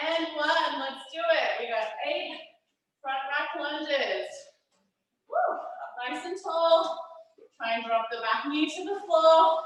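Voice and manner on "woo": high short woo; whoop. Real, not acted. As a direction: let out a little high whoop. Cheering on a workout class.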